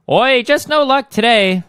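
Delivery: slow, high, bad British voice; hammed-up high English "oi" voice; Tracer's English accent. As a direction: put on a drawn-out amateur English accent. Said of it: "how does Tracer's voice go?".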